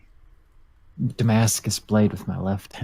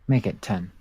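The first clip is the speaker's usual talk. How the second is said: sexy. Acted. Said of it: "All sexy-like".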